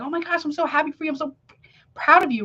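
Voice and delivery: high, fast and gushing with real excitement; truly thrilled congratulations, said quickly; genuine enthusiasm. Shown as a demonstration. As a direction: burst out happy for a friend, quickly and brightly. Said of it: "like, that's enthusiasm".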